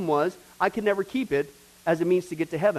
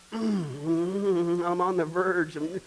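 wrath about to burst; 3 semitones higher, much slower than usual. Acted. God's pent-up wrath voiced.

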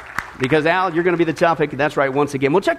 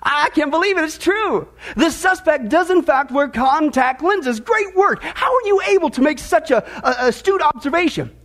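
higher, delighted and beaming; 5 semitones higher than usual. Acted. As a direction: gush with a beaming smile. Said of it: "beaming smile on his face".

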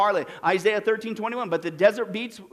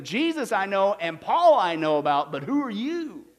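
evil spirit. Acted. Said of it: "the evil spirit answered them".

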